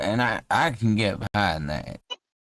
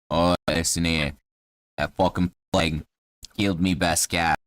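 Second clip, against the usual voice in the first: low-pitched Cockney grumble; Cockney halfling; 5 semitones lower than usual. Acted. Halfling tells a traveller about the plague, low Cockney voice. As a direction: gripe in a low Cockney accent. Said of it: "'cause he's Cockney".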